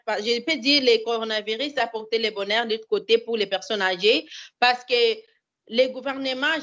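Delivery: non-native French speaker; French as a second language; foreign accent in French. Real, not acted. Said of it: "mon français est très mal".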